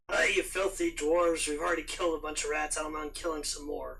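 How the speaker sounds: growled warning at the dwarves; growling voice. Acted. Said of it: "in my best, you know, growling voice".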